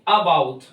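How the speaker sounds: about with a barely heard first vowel; about, weight thrown onto "bout"; very quick schwa. Shown as a demonstration. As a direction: say about with the opening a reduced to a schwa. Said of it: "आ तो आवाज में कहीं सुनाई दे ही नहीं".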